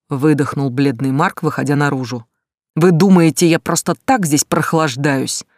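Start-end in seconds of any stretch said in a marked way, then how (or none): 2.7-5.5 exasperated retort. Acted. Mark snaps back at shouting.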